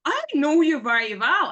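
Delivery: high, loud retold comeback; emphatic, argumentative mimicry; heated retort. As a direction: imitate a daughter insisting to mom. Acted quarrel, daughter retorts.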